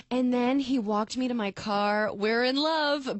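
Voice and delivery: mock lovestruck girl. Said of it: "that girl was like".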